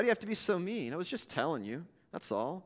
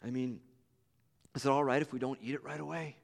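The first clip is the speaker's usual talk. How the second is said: softer, halting, almost whispered plea; soft and hesitant; 4 dB quieter than usual. Acted. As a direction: ask shyly, barely daring. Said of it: "she slowly and softly said".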